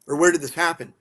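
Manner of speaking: demanding answers, fired up; retold rage. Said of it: "I'm raging now".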